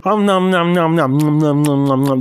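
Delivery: mock chewing noises. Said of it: "You end up sitting there going".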